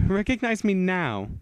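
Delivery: towering vampire bellow; commanding shout. Acted. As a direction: roar it at her. Adult vampire reveals herself.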